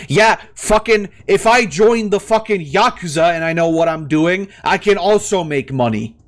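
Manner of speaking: getting worked up, jabbing every fucking; heated. Real, not acted. Ranting to viewers about sister's money schemes, heated. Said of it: "Sorry, I'm getting very heated".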